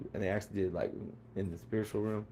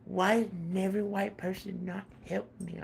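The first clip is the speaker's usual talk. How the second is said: high, mocking sarcastic question; mock their complaint with sarcasm; 9 semitones higher than usual.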